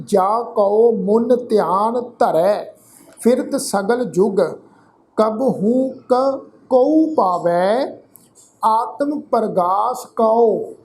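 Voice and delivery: slow, measured Gurbani reading; scripture recitation. Shown as a demonstration. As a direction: recite line by line with drawn-out syllables and pauses.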